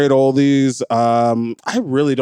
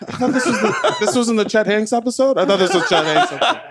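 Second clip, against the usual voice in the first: laughing; 7 semitones higher than usual. Real, not acted. Teasing while laughing.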